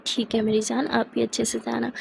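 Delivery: tender. Acted. Smiling voice reply to lover.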